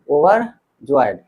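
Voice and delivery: overjoyed drawn out very slowly, syllable by syllable; overjoyed stretched long for students to copy; slow pronunciation demo. Shown as a demonstration. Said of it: "हम कहें कि overjoyed". (overjoyed बहुत धीरे, खींचकर)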